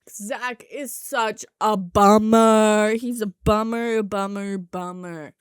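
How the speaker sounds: slow, drawn-out bummer, fading; drawn-out mockery. Real, not acted. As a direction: drag out each bummer, trailing off.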